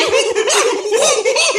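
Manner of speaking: shrill giggling monkey laugh; high cartoon cackle. After the monkey's plea.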